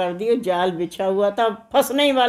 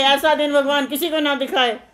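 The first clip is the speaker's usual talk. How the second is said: raised-pitch mock cry; calling out; 5 semitones higher than usual. Simpleton shouts into a wedding procession, mock calling out. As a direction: proclaim it like a repeated slogan. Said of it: "ये बीच में चिल्लाते हुए".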